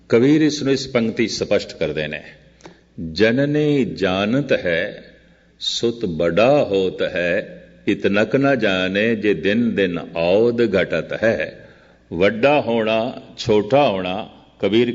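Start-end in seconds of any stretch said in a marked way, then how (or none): 3.1-11.7 slow, measured scripture verse with drawn-out syllables; verse recitation. Acted. Preacher quotes Kabir's line to his listeners, slow verse recitation. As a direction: recite it very slowly, stretching the words.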